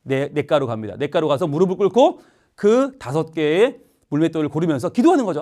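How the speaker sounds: usual speaking voice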